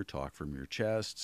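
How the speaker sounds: slow chest voice. Shown as a demonstration. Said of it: "breathe down here".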